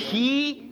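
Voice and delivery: "hi" with a long, drawn-out i. Shown as a demonstration. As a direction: stretch the i of "hi". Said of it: "mais un i long". ("hi" avec un i long, étiré)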